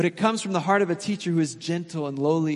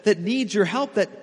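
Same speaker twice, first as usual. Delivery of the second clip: pleading prayer; 3 semitones higher than usual. Acted. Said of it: "We look at our lives and say".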